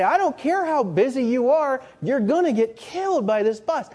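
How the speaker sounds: loud high cry of alarm; urgent warning shout. Pretend. Friend yelling at a man stepping before a bus, alarmed shout. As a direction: yell it to stop him stepping out.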